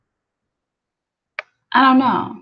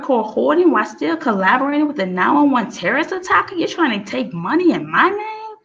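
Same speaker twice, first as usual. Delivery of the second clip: indignant voice; 5 semitones higher than usual. Acted. Speaking as the one whose name is used, outraged. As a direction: demand it like the wronged owner of the house. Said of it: "I'm doing it from the perspective of someone".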